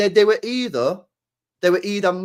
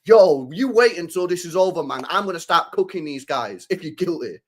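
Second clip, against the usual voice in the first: mock bravado. Streamer imagining a club boss boasting before a verdict, mock bravado. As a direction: play a cocky threat, lightly. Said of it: "with your chest out and go".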